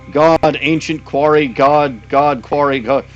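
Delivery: frog chatter. Acted.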